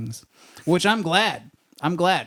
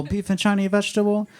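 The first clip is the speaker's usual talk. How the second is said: higher-pitched, lightly put-on Chinese accent; mock Chinese accent; 6 semitones higher than usual. Timid customer ordering, mock Chinese accent. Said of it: "it just comes out that way".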